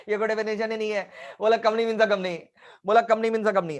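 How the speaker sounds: imitated dismissive chuckle; put-on amusement at a silly definition; mock laughing teacher. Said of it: "पढ़ाते समय हंसने भी लगते होंगे".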